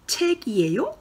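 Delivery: 책이에요 with a high rising question tune. Shown as a demonstration. Teacher modelling the question to the class, rising. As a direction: lift the end of 책이에요 as a question. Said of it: "Alors, ensuite".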